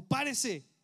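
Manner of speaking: a stern father's loud order to get up; snapping at the boy to stop crying. Retold or imitated. Father scolding his fallen son, loud and stern. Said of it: "su papá dijo".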